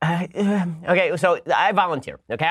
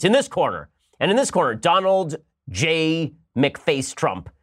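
a hint of a ring announcer, drawn out; mock ring announcer; slower than usual. Podcaster mock-announcing Biden versus Trump, hammed-up ring announcer. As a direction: announce the fighters like a boxing MC.

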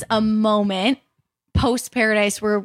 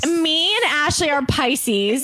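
giddy high voice; 5 semitones higher, slower than usual. Real, not acted. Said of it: "takes her voice to another octave".

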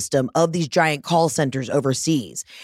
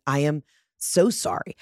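low-key, sheepish retold apology; retold gentle "so sorry"; 3 semitones lower, 4 dB quieter than usual. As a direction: apologize gently to someone you wronged. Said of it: "I had to say it in a gentle way".

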